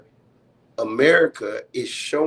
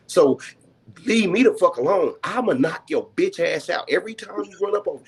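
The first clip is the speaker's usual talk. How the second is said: raised, defiant rant; 2 semitones higher than usual. Retold or imitated. Fed up with how others treat him, a defiant raised rant. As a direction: spit it out like you're done being nice. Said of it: "that's how I feel".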